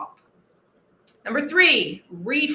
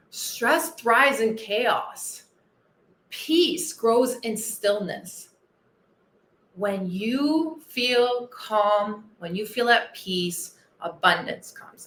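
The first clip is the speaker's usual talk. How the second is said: calm and slow; slower than usual. Acted. Calming, meditative advice.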